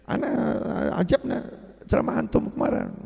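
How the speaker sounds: put-on Madurese Habib accent. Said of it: "Dengan gaya, apa namanya, Habib Maduranya ya".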